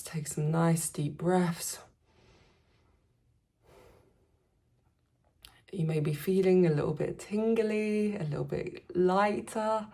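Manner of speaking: calm meditation voice, spaced out with long pauses; gentle, unhurried guiding voice; guided meditation. Acted. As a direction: ease listeners back into their breath. Guides recovery after breath work.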